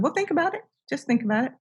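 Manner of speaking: retold nudge, lightly voiced and high, then easing down; gentle urging. Robin urging the puzzled teller to think, gently coaxing.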